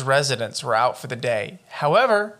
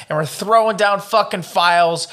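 building higher and louder as the fantasy grows; getting into it; 5 semitones higher, 4 dB louder than usual. Pretend. Dreaming up their detective office for the cohost, growing excited and loud. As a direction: paint the noir office with rising excitement. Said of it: "I'm getting really into this".

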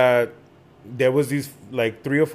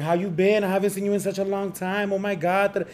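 fake excited reunion; 6 semitones higher than usual. Pretending to know the girl.

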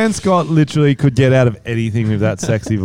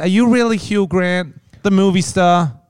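slightly higher, lightly voiced streetwalker; incredulous hooker, lightly acted; L.A. street hooker; 4 semitones higher than usual. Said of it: "You're an L A street hooker".

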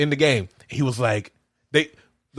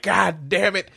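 hammed-up cussing, pitched a bit higher; overdone cursing; 4 semitones higher than usual. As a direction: overdo every curse, mock outburst. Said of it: "overdoing it".

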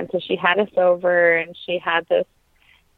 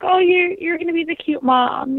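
playful, higher teasing voice, mock sweet; teasing friends; 10 semitones higher than usual. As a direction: imitate friends teasing her, sing-song. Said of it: "my friends would joke".

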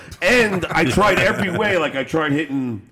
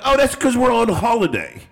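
higher, badly faked English accent; 8 semitones higher than usual. Prank caller explaining the phone number, bad English accent. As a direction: cover story in a put-on English accent. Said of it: "I'm gonna do it in the".

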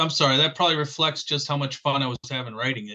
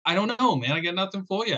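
mock helplessness; 5 semitones higher, faster than usual. Acting out his reply to puzzled listeners.

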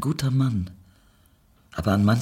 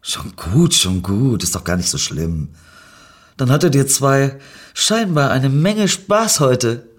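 comforting; 4 semitones higher, 5 dB louder than usual. Acted. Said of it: "versuchte Winnie sie zu trösten".

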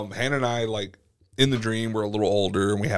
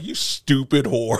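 mock going off; 3 semitones higher, slower than usual. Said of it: "I was going off".

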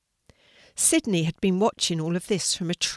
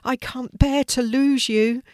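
higher, louder anguished plea; crying out; 6 semitones higher, 6 dB louder than usual. A narrator's reading. Sidney fearing he will lose his sister, anguished cry. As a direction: cry out in distress. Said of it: "Sidney cried out loud".

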